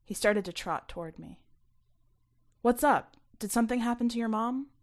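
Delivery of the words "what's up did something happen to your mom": quick, louder worried questions; a friend anxiously hurrying over. Acted. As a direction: rush it out in concern.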